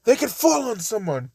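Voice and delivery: lightly voiced British accent. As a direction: repeat it with a proper British lilt. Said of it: "Yet again, I made him British".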